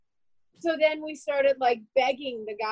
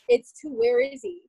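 retold exasperation, pitched up and louder; higher, insistent questioning; exasperated demand; 11 semitones higher, 3 dB louder than usual. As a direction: demand an answer, mildly indignant. Family confronts airport staff.

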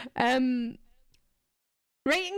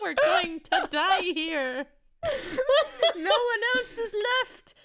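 laughing through a bad Irish accent; 10 semitones higher, 3 dB louder than usual. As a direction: ham up a poor Irish accent. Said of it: "See, I cannot do an Irish accent".

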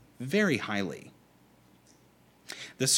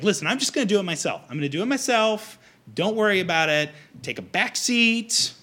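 higher, louder, insistent brush-off; hammed-up indignant spouse insisting on doing it; exasperated retort; 7 semitones higher, 5 dB louder than usual. Telling a spouse to take a back seat, exasperated.

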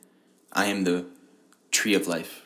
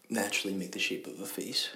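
whisper; 9 dB quieter than usual. Real, not acted. Quiet musing about faces.

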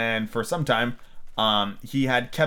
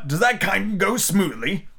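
great interest; 8 semitones higher, much slower than usual. A narrator's reading. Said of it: "in a tone of great interest".

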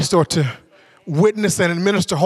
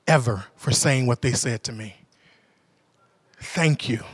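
touched collector; 3 semitones lower, 3 dB quieter than usual. Retold or imitated. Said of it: "And she said".

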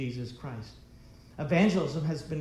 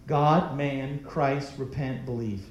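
slow, spaced words, each one weighed; measured, emphatic recitation; slow deliberate list; 2 semitones lower, slower than usual. Shown as a demonstration. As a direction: lay out each word slowly and firmly. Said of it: "that's just five words".

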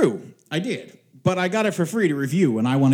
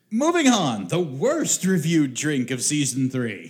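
put-on old radio serial announcer. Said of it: "my radio announcer voice".

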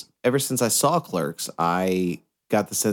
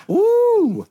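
much higher and louder whoop with a laugh; laughing woo; 6 dB louder than usual. Real, not acted. Cohost cheering the legal smoking joke, loud laughing whoop.

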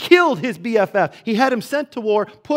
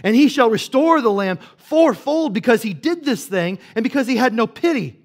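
a mock-angry king, louder and higher; furious king's verdict; 4 semitones higher, 4 dB louder than usual. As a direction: pronounce the sentence in retold fury. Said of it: "He's, he's furious".

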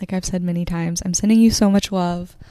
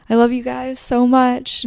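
higher, louder burst of affection; higher and louder with real excitement; gushing love; 6 semitones higher, 5 dB louder than usual. Real, not acted. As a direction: beam it out to your listeners. Gushing sign-off to listeners.

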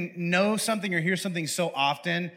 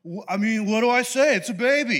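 higher, casual shrug; flippant angel; 4 semitones higher than usual. Retold or imitated. Angel trying to act casual, flippant. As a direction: toss it off like it's nothing. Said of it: "he's just like".

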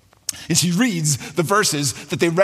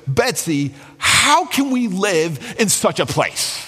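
frustrated; 5 semitones higher, slower than usual. Retold or imitated. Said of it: "in pure exhaustion, like pure frustration".

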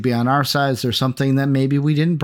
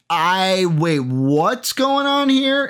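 shocked confusion; 3 semitones higher, slower than usual. Retold or imitated. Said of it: "you were almost like".

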